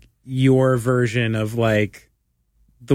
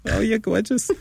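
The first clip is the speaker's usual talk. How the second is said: high-pitched doting Jewish grandmother impression; put-on Jewish grandma voice, pitched way up; 8 semitones higher than usual. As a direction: coo over a grandchild like a Jewish granny. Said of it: "like a Jewish grandmother".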